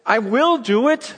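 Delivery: God swearing to his people, loud and high; God pleading. Retold or imitated. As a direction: speak as God, insisting passionately. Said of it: "He goes".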